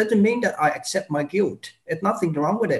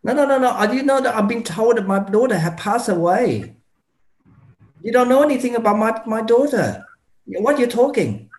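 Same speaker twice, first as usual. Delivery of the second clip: upset mother; 4 semitones higher than usual. Acted. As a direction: play the distraught parent pushing back at the doctor. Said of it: "become Jessica mom".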